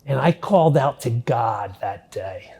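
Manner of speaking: whispered, hushed confession. Real, not acted. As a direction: drop to a whisper for the turning point. Solemn turning point of testimony.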